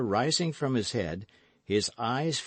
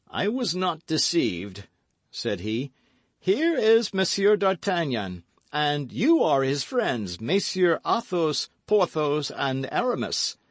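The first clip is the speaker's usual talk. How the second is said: slightly raised, firm voice of a newcomer; lightly voiced stranger; 5 semitones higher, 3 dB louder than usual. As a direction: announce them with grave urgency. Newcomer speaking.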